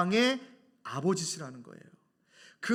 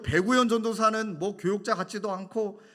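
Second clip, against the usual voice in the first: mock indignant dismissal, louder; retold angry complaint; 2 semitones higher, 4 dB louder than usual. Caller running down the church staff, retold anger. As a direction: imitate a caller grumbling loudly. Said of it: "막 교육자를 막 화를 내는데".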